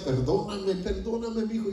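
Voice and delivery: high, imploring apology; retold tearful plea. Father hugging his small son begs forgiveness, retold tearful plea. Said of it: "empecé a llorar y decía".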